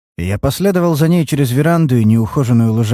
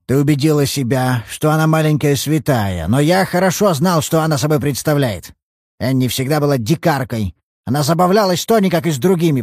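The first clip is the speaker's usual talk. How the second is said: put-on an old man belittling, voice pitched up; scornful old father; 4 semitones higher than usual. Old father mocking his daughter's faith in Anne, raised voice.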